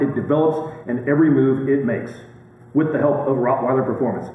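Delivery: smooth ad read, like radio; radio announcer. Real, not acted. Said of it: "you sound like a radio announcer".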